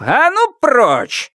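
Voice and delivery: high, slow angry bark; growled. Acted. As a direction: shove him aside with a snarl. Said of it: "рыкнув".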